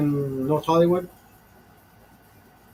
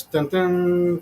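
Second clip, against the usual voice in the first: dramatic dun dun. Pretend. Narrating his own cliffhanger with a dun dun sting. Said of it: "to be continued".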